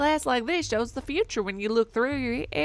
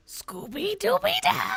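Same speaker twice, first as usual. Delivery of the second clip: slow, much higher cartoon dog shout; Scooby-Doo voice; 11 semitones higher, much slower than usual. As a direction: howl it out like a goofy cartoon dog. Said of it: "that's not a pitch perfect Scooby-Doo".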